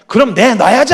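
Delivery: put-on older sister scolding her little sister; stern big sister. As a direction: grab her attention, firm and bossy. Older sister snatching phone.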